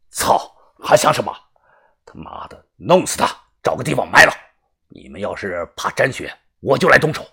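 a tough boss growling orders; rough gang boss. Acted. Boss telling his crew to kill the captive, rough and blunt.

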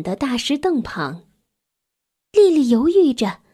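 gentle, measured storytelling with long pauses; children's story narration. A narrator's reading. Narrator tells a child about a grieving mouse family, measured storytelling.

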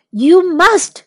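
high, loud insistence; urgent call. A narrator's reading. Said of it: "called Jack".

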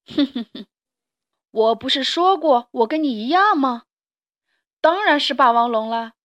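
a lightly voiced smug dinosaur chuckle; a hint of a gloating monster; sly T-rex.

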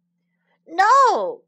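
high, loud cry of protest; indignant cry. A narrator's reading. Cow protesting to the moose, crying out. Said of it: "cried the cow".

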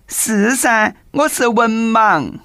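high, slow put-on woman's voice; young woman's voice. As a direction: coyly play the masseuse. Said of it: "美女答道".

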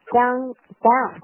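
DOWN then AT shown as sounds to link; linking demo. Shown as a demonstration. Teacher breaks down the linking, down and at stressed. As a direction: set out down and at for linking. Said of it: "down跟at做一个连读".

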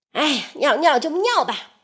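fast, brushing-off sigh; impatient. Acted. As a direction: wave it away, fed up. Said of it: "首领很不耐烦地说". (很不耐烦地说)

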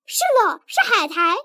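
猜中了，兴奋地高声大叫; 猛地提高嗓门，喊出答案. Acted. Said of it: "我跳起来大叫". (妻子猜中海苔时跳起来兴奋大叫)

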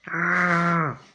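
a restrained storybook scream; mild narrated scream. A narrator's reading. Jack falls back from the snake, mild scream. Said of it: "Jack screamed".

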